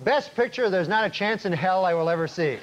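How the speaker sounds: deadpan newscast delivery; news anchor read. Acted. Comic anchor reporting on Oscar night, news read. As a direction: announce it like the evening news.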